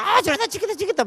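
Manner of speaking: high, fretting cry; anxious. Retold or imitated. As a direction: panic that we will lose. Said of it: "막 안절부절 하는데". (안절부절 불안한 외침)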